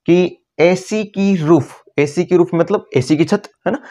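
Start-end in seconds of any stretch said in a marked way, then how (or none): 0.1-1.7 slow, stretched mnemonic phrase. Shown as a demonstration. Teacher slowly spelling out the mnemonic for students. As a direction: draw out the trick words for students. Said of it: "तो यहाँ से trick अपनी क्या निकलेगी".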